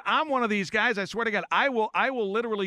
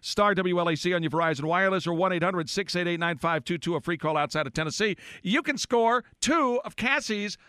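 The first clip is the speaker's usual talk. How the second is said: upbeat radio giveaway announcement; radio contest promo. Real, not acted. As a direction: rattle off the call-in numbers like a DJ. Host announces caller contest.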